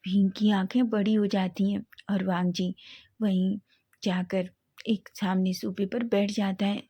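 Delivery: ordinary delivery, nothing marked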